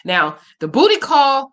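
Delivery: drawn out slowly, punchline; slow comic emphasis. Real, not acted. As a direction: stretch it out for the joke.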